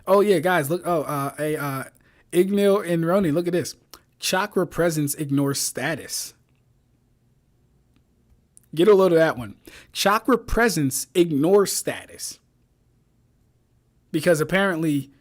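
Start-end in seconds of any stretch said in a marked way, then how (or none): 4.2-6.3 slow, deliberate readout. Real, not acted. Streamer showing friends a crazy claim, slow readout. 9.9-12.4 very slow, drawn-out quote; slow, deliberate readout. Real, not acted. Streamer repeating a claim he ridicules, slow and deliberate.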